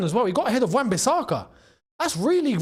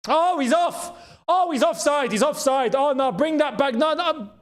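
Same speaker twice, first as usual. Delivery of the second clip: higher, brighter burst of relief; relieved excitement; 6 semitones higher than usual. Real, not acted. Fan spotting offside on the replay, higher excited relief. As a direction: jump on the offside call.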